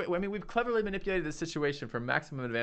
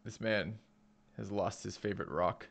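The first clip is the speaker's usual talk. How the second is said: measured request; 6 semitones lower, 4 dB quieter than usual. Acted. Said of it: "I say in Ignan to them".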